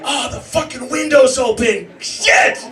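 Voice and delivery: hammed-up dad freakout; mock shouted panic. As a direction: realize the window's open mid-rant. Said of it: "I'm like".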